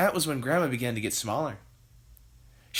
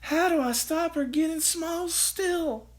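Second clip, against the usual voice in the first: Missus Cranky crying out; slower than usual. A narrator's reading.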